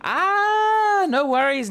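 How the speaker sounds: cartoon squeak of relief; squeaky comic voice. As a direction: pitch it up for a silly reaction. Silly high comic reaction.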